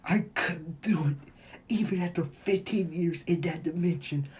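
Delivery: mock-tearful, strained despair; crying. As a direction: lament your failure, voice pushed and anguished. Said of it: "he begins to cry".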